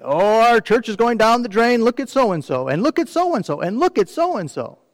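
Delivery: lightly voiced grumbler moaning about others; a hint of a conservative churchgoer's whine; whining church member. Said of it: "They complain and they whine".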